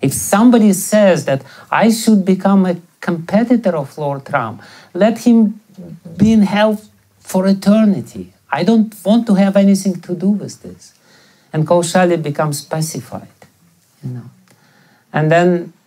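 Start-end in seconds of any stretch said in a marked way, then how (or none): 0.0-10.9 cursing vow. Retold or imitated. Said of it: "That's my curse to her".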